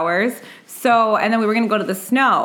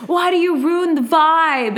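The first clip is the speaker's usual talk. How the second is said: mock annoyed brother; 7 semitones higher, slower than usual. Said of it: "my brother got mad".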